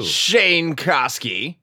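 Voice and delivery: Koski with a long rolled R. Pretend. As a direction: roll the R in Koski slowly. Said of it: "Nice, nice rolled R".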